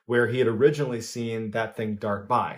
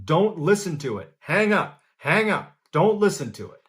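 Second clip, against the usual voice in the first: high, urgent mock shout; retold yelling; 5 semitones higher than usual. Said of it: "Bill was yelling to Michael".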